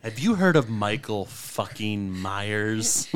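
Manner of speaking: low, slow, ominous question; menacing slow voice. Retold or imitated. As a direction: spook the kids.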